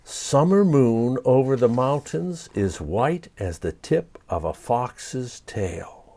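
slow, soft poem recital; recited haiku. A narrator's reading. Poet reciting his haiku to the fox, soft and slow. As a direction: savor each word of the summer moon. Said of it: "Here's his poem".

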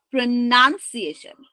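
"প্রনাউন্সিয়েশন" with a short NUN; correct "প্রনাউন্সিয়েশন". Shown as a demonstration. Teacher repeating after spelling n-u-n, "প্রনাউন্সিয়েশন" with "nun". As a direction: say "প্রনাউন্সিয়েশন" as pro-nun-si-a-tion. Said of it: "এন ইউ এন".

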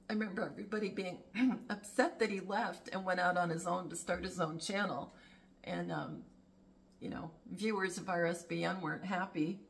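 talking around ice cubes; chewing ice. Real, not acted. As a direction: mouth full of crunched ice. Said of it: "Sorry, I'm chewing ice".

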